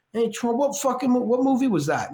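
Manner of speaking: hammed-up De Niro calling out; De Niro impression. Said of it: "Robert De Niro goes by Bobby".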